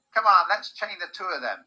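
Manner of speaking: high, forceful call; loud rallying order. A narrator's reading. Squinty guard rallies the guards, loud order. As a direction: urge the others on loudly.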